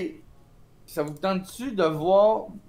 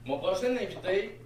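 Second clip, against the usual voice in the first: softer host-style guest announcement; TV host intro; 3 semitones higher, 4 dB quieter than usual. Shown as a demonstration. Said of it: "Check bien".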